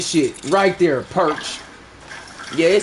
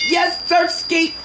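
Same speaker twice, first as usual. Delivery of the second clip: excited cheer; 8 semitones higher, slower than usual. Real, not acted. Celebrates the points.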